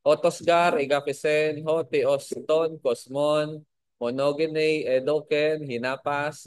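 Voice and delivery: otosgar egapesen ho theos ton kosmon recited slowly word by word; reciting Greek. Shown as a demonstration. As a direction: read out the Greek of John three sixteen, word by word. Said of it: "In Greek".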